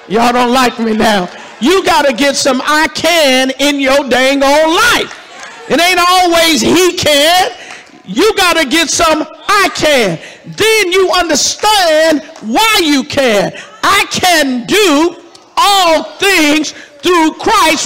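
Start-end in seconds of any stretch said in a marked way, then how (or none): 1.6-5.1 rising preacher fervor. Real, not acted. Preacher to congregation, building to a loud fervent push. 5.7-13.5 full-force preaching. Real, not acted.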